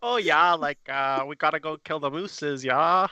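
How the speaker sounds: lightly mocked Canadian lilt; stereotype Canadian accent. Canadian mocking the moose-hunting stereotype, fake Canadian accent. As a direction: push the "yeah" at each end, cartoon Canadian. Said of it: "I don't know anyone that talks like that in Canada".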